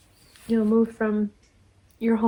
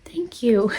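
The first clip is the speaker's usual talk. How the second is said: breathy whispered thank you; 2 semitones higher than usual. Real, not acted. Thanking a generous friend, whispered and touched. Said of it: "she spoils me".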